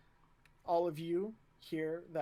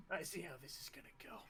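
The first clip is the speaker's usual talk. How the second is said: much softer, fast aside; quiet resignation; 13 dB quieter, much faster than usual. Acted. Officer giving up on a flustered cadet, quietly.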